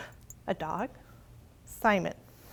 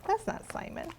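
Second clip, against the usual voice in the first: whisper; 9 semitones higher, 9 dB quieter than usual. Acted. Secret about the bed.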